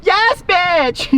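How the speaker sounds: high, loud whoop of victory; triumphant cheer. Real, not acted. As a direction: yell it out in triumph.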